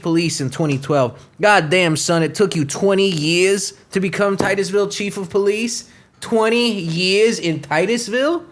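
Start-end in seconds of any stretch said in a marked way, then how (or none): 6.2-8.4 slow, rising disbelief; incredulous question. Real, not acted. Host mocking the chief's twenty-year climb, slow incredulous rise. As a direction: drag it out in disbelief. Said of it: "repeats in disbelief".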